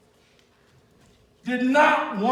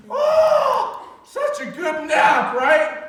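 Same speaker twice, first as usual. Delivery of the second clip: mock sleepy Peter; 3 semitones higher, slower than usual. Mocking Peter waking from nap.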